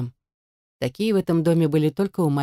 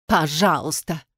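a sneering, disgusted echo; disgusted mimicry; slower than usual. A narrator's reading. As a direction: spit her plea back with disgust. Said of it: "повторила её слова с отвращением". (с отвращением передразнивая)

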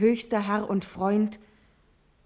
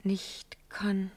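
whisper; 9 dB quieter than usual. Acted. Natalie whispers the doubt.

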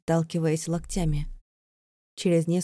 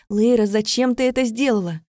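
reproach; 4 semitones higher, 7 dB louder than usual. Acted. Vika reproaching her friend.

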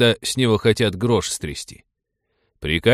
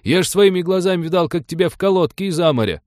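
amazed; 8 semitones higher, 4 dB louder than usual. Acted. Stunned at old friend.

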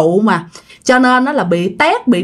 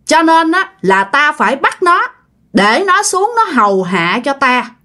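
possessing spirit voice; 4 semitones higher than usual. Retold or imitated. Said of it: "Là ông ngoại nói nguyên văn như vậy".

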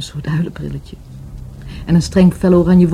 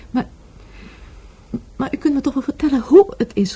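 whisper; 9 semitones higher than usual. Acted. Pleading detective for details.

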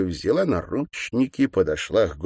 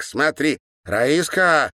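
put-on gleeful girl; 7 semitones higher, 4 dB louder, slower than usual. A narrator's reading. Girl calls to her sister.

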